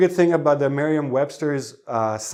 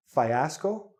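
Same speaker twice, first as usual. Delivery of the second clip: ordinary delivery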